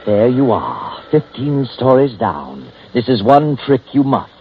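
slow, deliberate mocking narration; sardonic story narrator. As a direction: address the fallen man with drawn-out irony.

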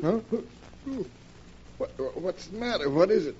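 high, startled, just woken; startled awake. Acted. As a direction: jolt awake confused. Woken suddenly from sleep.

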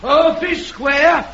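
slow, shouted disbelief; incredulous shout. Acted. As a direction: bellow it back in disbelief. Heckler scoffs at speaker.

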